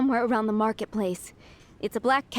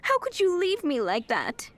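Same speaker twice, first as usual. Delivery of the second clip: tender scolding; 5 semitones higher than usual. Acted. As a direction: chide him gently like a baby. Owner scolds cat tenderly.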